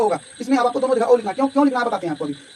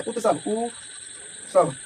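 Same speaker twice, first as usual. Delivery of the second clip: slow sounding out; 3 semitones lower, 7 dB quieter, much slower than usual. Shown as a demonstration. Teacher slowly sounds out word.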